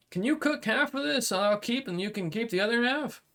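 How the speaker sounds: a blunt samurai making a deal; dragonkin warrior. Acted. GM voices the dragonkin.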